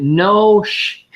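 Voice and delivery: high, loud mock exclamation; retold loud exclamation. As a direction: blurt it out in amazement, retelling it. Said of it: "He just kinda said it really loud".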